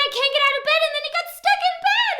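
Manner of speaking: high, loud, sing-song telling; excited retelling. Acted. Reader retelling the boy's stuck moment, high and sing-song. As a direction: bounce the words up for the kids.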